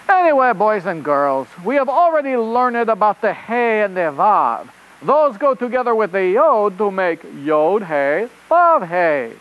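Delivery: put-on rabbit reporter in a hammy French accent; host a children's show in bad French-accented English; really bad French accent. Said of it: "with a really bad French".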